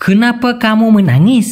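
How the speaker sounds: very slow, each Malay word spaced out; slow clear Malay. Shown as a demonstration. Teacher to Bengali learners, very slow careful Malay. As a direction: spell the phrase out by ear for learners. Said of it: "তুমি কাঁদছো কেন".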